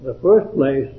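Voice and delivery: measured, earnest verse recitation; devotional poem reading. Acted. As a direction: read the poem aloud, pausing after each phrase.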